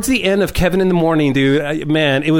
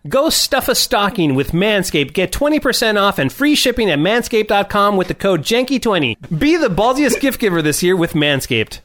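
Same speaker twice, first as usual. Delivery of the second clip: upbeat sponsor sign-off read. Acted. Host closing the Manscaped holiday spot, ad read. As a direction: sell it like a podcast advert.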